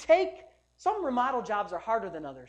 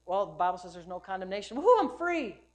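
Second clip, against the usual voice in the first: mock carefree cheer; 3 semitones lower than usual. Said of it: "listening to".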